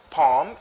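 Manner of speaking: poem squeezed into one syllable, heard as palm; wrong pronunciation. Shown as a demonstration. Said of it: "It's not".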